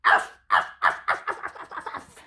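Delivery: seal barks. Shown as a demonstration. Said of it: "arf real loud".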